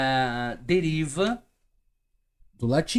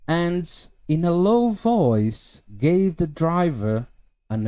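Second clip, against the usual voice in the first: slow, careful English reading; slow reading aloud; slower than usual. Shown as a demonstration. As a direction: read each word out slowly. Reads novel passage aloud.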